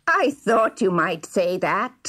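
slow, scheming villain sneer; sneering dwarf. A narrator's reading. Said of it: "sneered the dwarf".

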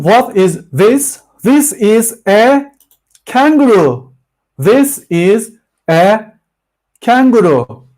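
slow, exaggerated question and answer; slow teaching demo. Shown as a demonstration. Teacher drilling students on "What is this?", slow and exaggerated. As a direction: spell it out word by word for beginners. Models English answers for class.

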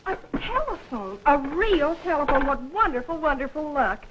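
high, breathless delight at the phone; overjoyed, can't believe her luck; thrilled by the telephone; delighted surprise. Acted.

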